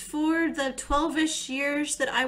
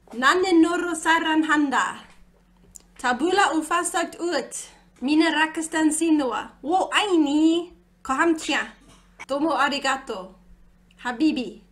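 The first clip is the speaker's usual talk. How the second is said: overacted anime dub; 4 semitones higher, 5 dB louder than usual. Reciting love phrases in languages.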